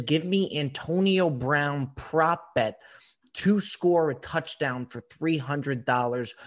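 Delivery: slow, emphatic mock demand; imitating a bold demand. Retelling the co-host's bet to listeners, slow emphatic mock demand. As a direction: drag out each word like a cocky bettor. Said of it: "comes knocking and says".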